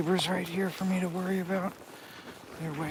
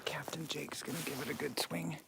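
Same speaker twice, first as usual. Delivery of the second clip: whispering; 3 semitones lower, 9 dB quieter than usual. Real, not acted. Hushed before a knock.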